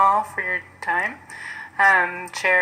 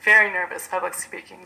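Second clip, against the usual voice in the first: shaky voice. Real, not acted. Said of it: "excuse my shaky voice".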